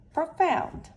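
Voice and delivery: final blended reading. Shown as a demonstration. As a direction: land "profound" high and loud as the final reading. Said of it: "let's read each syllable".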